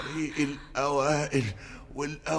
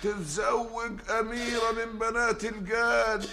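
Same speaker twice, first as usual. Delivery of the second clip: solemn proclamation; 6 semitones higher than usual. Acted. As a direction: proclaim it like a high priest. Priest performs the wedding rite.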